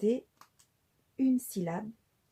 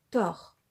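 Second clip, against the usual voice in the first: tort said alone and louder; onset syllable stressed; 6 dB louder than usual. Shown as a demonstration. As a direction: hit tort as the first syllable. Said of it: "la syllabe d'attaque c'est". (tort, accentué, syllabe d'attaque)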